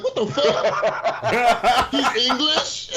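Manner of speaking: mock shocked disbelief. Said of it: "you're like".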